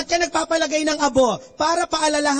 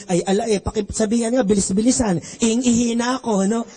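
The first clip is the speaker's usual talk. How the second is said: put-on Batangas accent; 3 semitones lower than usual. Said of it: "Sabi niya".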